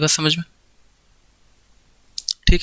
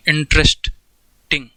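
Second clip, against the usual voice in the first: इंटरेस्टिंग stretched slowly in one long breath; slowly drawn out; much slower than usual. Shown as a demonstration. Teacher sounding out इंटरेस्टिंग for students, slowly drawn out. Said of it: "एक बार में बोल सकते हो कि नहीं".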